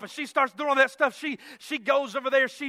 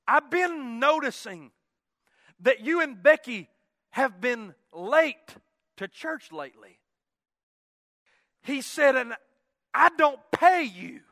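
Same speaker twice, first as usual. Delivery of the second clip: stern reprimand; 4 dB louder than usual. Retold or imitated. Preacher boss scolds employee for lateness, stern reprimand. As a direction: lay down the law, pausing between phrases.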